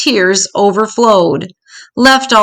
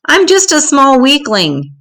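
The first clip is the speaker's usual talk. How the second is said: small donkey voice; 6 semitones higher than usual. A narrator's reading. Donkey pleads in high voice.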